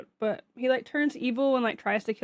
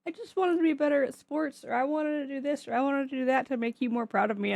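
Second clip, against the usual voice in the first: put-on higher, small child's plea; a lightly voiced hurt child; imagined child; 5 semitones higher than usual. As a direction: plead like a little kid. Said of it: "if my child came up to me and was like".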